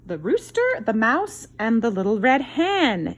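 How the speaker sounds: high, loud, drawn-out title announcement; bright storybook title call; title read with flair. Acted. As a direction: present the title like a grand reveal. Reading the book title aloud.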